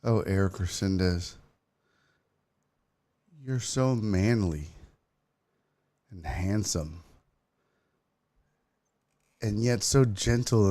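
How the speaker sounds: low, soft, slow come-on; hammed-up sultry swooning, low and hushed; mock seductive admirer. Streamer performing a paid shout-out for a viewer, mock sultry.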